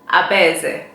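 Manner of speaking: Abaeze said clearly as a-BAE-ze for learners; Igbo name demo. Shown as a demonstration. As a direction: model Abaeze slowly and evenly. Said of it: "Let's say it a few more times".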